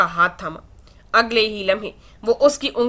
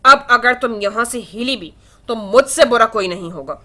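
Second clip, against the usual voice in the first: furious. Acted. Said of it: "حدید بے حد غصے سے بولا".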